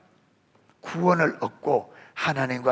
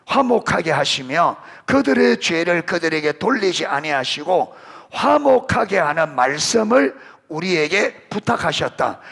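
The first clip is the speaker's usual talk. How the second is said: raised, measured reading of the verse; solemn Bible reading; scripture reading; 3 semitones higher, 6 dB louder than usual. Acted. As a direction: read it out slowly like holy text. Reading scripture aloud to congregation.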